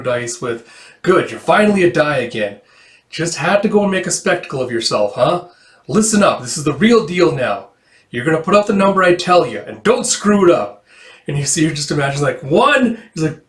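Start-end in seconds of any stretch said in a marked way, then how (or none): 1.0-10.8 higher, louder, bossy gambler voice; scolding gambler. Acted. Gambler scolding his runaway die before the real game, bossy and raised. 12.4-13.0 high, loud call. Acted. Calling the number for the dice game, high loud shout. Acted shout in manga read-through.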